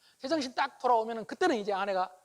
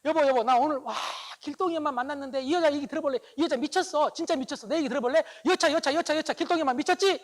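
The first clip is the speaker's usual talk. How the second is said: wife bursting in, loud and worked up over a friend; 5 semitones higher, 8 dB louder than usual. Acted. Wife home angry, venting to husband, loud and high. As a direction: pour out the gossip at full volume, high and breathless. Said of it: "이렇게 말할 수 있어요".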